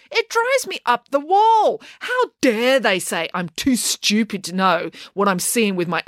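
put-on girl fuming that no one believes her, slow and high; exasperated girl. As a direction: pour out the grievance slowly. April furious at disbelief.

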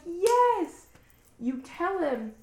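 high, loud, slow sobbing voice; real sobbing. Real, not acted. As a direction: speak through real tears, stretched out. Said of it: "And I'm sobbing".

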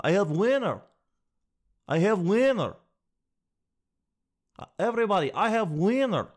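mock excited yell. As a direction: announce the win in a put-on voice. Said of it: "He's just yelling the whole time".

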